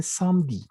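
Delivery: "samedi" in two syllables, sam-di; silent E. Shown as a demonstration. Teacher showing the mute E, two syllables. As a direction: drop the E in "samedi". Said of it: "La E no se pronuncia".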